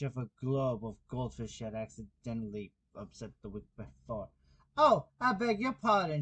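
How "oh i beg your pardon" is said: high, flustered apology; great dismay. A narrator's reading. Alice apologises to the upset jurymen in dismay. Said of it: "in a tone of great dismay".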